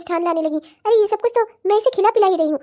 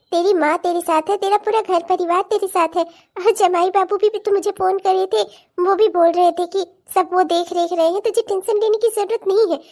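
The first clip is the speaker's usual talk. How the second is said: reassuring. Acted. Mother calming her worried pregnant daughter, tender. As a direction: soothe her gently like a mother.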